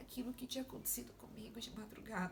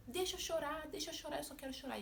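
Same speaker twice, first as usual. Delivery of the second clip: tearful plea; 5 semitones higher, faster than usual. Retold or imitated. Answering husband while crying.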